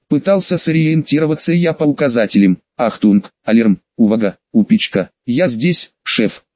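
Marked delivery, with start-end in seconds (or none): 2.8-6.4 panting shout; puffing while shouting; out of breath. Acted. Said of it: "пыхтя, кричал парень". (запыхавшись, кричит)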